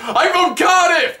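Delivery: high, drawn-out yell; re-enacted shout. Fan correcting Seth about Glasgow, high shout. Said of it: "And I shouted".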